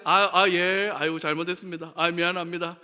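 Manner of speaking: quick, mumbled, perfunctory sorry; hasty empty apology. Retold or imitated. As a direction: rattle off the apology to get it over with. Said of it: "더 화가 나죠". (빠르게 얼버무리는 건성 사과)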